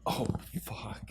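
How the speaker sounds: a hushed, breathless whispered oh fuck; whispered curse. Retold or imitated. Reacting to the boss's comeback, whispered in shock. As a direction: whisper it in stunned awe. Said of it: "I was like".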